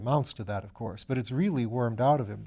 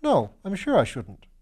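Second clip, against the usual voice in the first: put-on young student; 7 semitones higher, 5 dB louder than usual. Piggott's voice.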